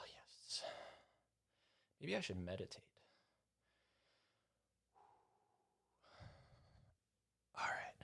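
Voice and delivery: barely audible murmur; near-silent aside. Real, not acted. Host fixing the mic, murmuring far from it. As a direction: mutter it off mic.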